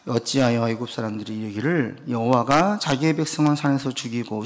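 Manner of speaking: measured formal Bible reading; scripture reading. Acted. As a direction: read the verses like a solemn prayer.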